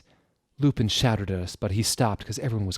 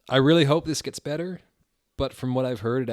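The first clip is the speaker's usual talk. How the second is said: exasperated; 5 semitones higher, 4 dB louder than usual. Real, not acted. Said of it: "reader's own reaction".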